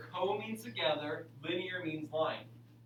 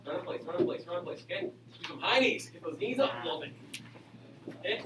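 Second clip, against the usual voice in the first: aerobics instructor; faster than usual. Real, not acted. Leading class exercise break.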